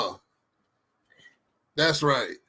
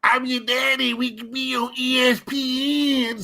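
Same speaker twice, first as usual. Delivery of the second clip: movie line quote; 7 semitones higher than usual. Retold or imitated. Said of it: "Hold up".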